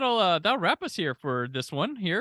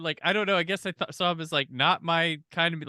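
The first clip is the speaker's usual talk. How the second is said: ordinary talk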